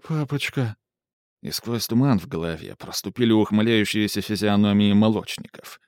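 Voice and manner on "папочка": put-on child calling from the van; thin child's voice. A narrator's reading. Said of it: "голосок ... ребёнка".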